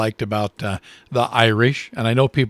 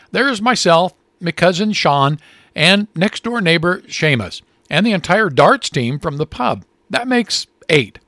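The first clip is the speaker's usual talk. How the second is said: lightly put-on Irish accent, higher, slowing at the end; hint of an Irish brogue counting up his army; Patty listing his tiny army in a mild Irish brogue; heavy Irish accent; 5 semitones higher than usual. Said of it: "a heavily accented voice said".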